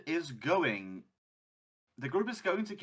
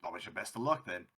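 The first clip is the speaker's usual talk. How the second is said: put-on Scottish-Irish accent; 9 dB louder than usual. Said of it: "Scottish-Irish way".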